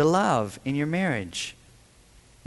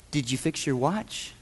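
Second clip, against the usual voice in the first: sweetly. Retold or imitated. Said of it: "she said it sweetly".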